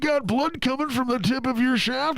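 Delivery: a sunny recorded-ad voice, pitched well up; a cheesy hold recording selling the clinic; clinic hold message. Retold or imitated. Clinic hold recording cheerfully greeting callers, a mock ad voice. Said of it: "the fucking waiting music from the fucking clinic".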